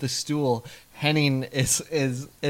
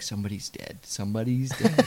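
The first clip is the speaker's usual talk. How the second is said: mouthing; 4 semitones lower, 5 dB quieter than usual. Retold or imitated. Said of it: "Meg's just, like, mouthing".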